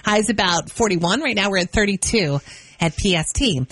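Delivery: upbeat DJ read of station and weather; cheerful Friday radio host read. Acted. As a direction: sell the station like a morning-show host.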